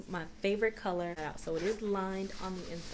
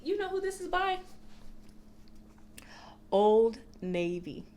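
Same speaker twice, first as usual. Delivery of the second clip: excited reveal; 8 dB louder than usual. Real, not acted. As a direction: hype up the big reveal. Revealing a surprising brand.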